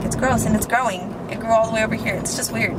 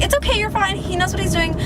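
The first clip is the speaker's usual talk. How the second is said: raised-pitch imitation of soothing; reassuring friend; 6 semitones higher than usual. Friend to donor about the needle, reassuring. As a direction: play the friend insisting all is well.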